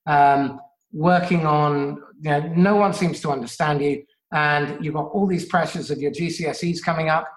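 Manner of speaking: low, gentle and sincere; nurturing parent. Acted. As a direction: soothe the teen like a caring parent. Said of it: "vulnerable, nurturing, assertive, and you can say".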